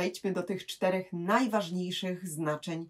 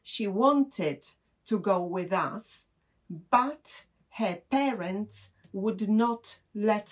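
slow model sentence; much slower than usual. Shown as a demonstration. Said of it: "możemy powiedzieć na przykład".

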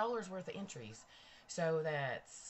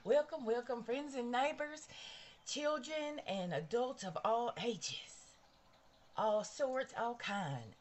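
show host welcome; 2 semitones higher than usual. Acted. Livestream host greeting her audience, upbeat welcome.

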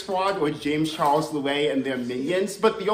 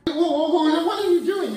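startled; 10 semitones higher, 4 dB louder than usual. Real, not acted. Startled at friend's hands.

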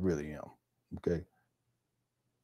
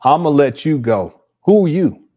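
mock indignation; 5 semitones higher, 9 dB louder, slower than usual. Mocking the preacher's line.

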